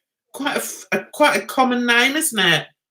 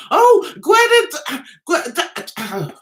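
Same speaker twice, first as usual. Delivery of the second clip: mock calling a child; 7 semitones higher than usual. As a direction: call the kid over, tripping and giving up. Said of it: "I'd never be able to call my kid".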